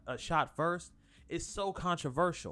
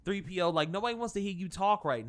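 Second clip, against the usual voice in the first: yelling; 3 semitones higher, 7 dB louder than usual. Retold or imitated. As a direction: bark it out, fed up. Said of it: "and he's like".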